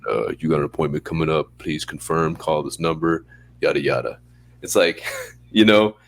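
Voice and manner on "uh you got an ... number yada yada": dull phone voice. Retold or imitated. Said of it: "They don't wanna be like".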